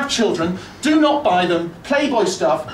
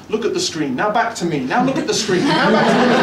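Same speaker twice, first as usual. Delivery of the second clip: presenter voice. Retold or imitated. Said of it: "a voice pops in my head going".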